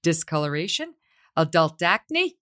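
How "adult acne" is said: adult acne said slow in a Staten Island accent. Real, not acted. Ad read slipping into her Staten Island accent, slow. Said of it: "when you say adult acne".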